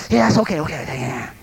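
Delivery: hurried okays dropping away in pitch and volume; harried dismissal. Retold or imitated. Preacher acts out frustrated resident accepting flowers, harried and dismissive. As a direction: brush the caller off, fading out.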